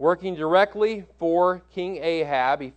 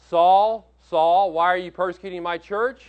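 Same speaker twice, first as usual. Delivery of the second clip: calling out; 2 semitones higher, 6 dB louder than usual. Retold or imitated. Voicing the Lord calling Saul.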